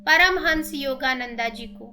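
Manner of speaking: measured, ceremonial calling-in with pauses between names; steady devotional invocation, phrase by phrase; meditation invocation. Acted. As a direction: reverently invite each guru and deity in turn. Meditation invocation of pyramids, gurus, deities.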